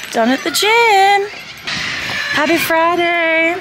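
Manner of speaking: excited. Real, not acted. Cheerful post-gym greeting to camera.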